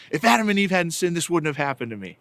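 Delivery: quick mock complaint, starting high and falling; frustrated child. Son explains his pajama mishap to his parents, mock frustration. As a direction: imitate an exasperated kid's rushed gripe. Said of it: "He was so frustrated".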